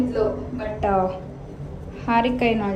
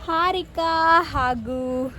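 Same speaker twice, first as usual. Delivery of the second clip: dramatic name reveal; 6 semitones higher, much slower than usual. Real, not acted.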